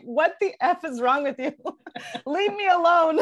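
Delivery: hammed-up rage at a hovering partner, laughing through it; upset person yelling at partner, mock fury with laughter; mock enraged. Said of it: "you would be enraged".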